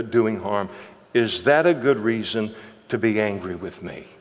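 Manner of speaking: soft, patient question from God; gentle reasoning. Retold or imitated. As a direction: calmly reason with the prophet. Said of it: "the Lord tries to reason with him".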